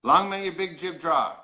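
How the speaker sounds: Newfoundland accent, said for others to repeat; demonstrated Newfoundland saying; Newfoundland phrase. Shown as a demonstration. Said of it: "I'll say a phrase in Newfoundland".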